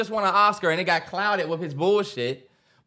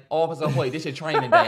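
laughing quote; 4 semitones lower than usual. Retold or imitated. Quoting a film line laughing.

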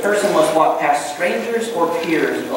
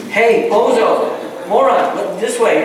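mock calling out; 3 semitones higher, slower than usual. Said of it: "it's kinda like".

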